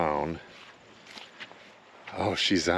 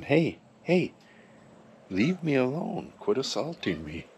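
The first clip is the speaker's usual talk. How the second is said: startled scolding; 7 semitones higher than usual. Real, not acted. Cat bashing into her legs.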